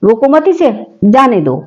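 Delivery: "रोको मत इसे" in one run, then "जाने दो" falling; pause after इसे. Shown as a demonstration. Teacher explaining the first meaning, pause before जाने दो. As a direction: break before जाने दो, let it fall. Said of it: "रोकने का निषेध किया जाए".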